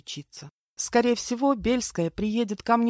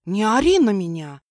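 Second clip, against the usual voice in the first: loud, outraged yell back; shouting back at the man who growled; indignant shout; 8 dB louder than usual. A narrator's reading. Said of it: "возмутилась я".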